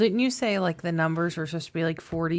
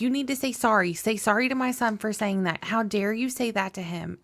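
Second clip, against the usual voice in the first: higher mock mom scolding; lightly voiced scolding mom; 5 semitones higher than usual. The speaker pretends to be the kid's mom, higher scolding. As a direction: scold like a fake angry mother. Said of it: "Dylan pretending to be his mom".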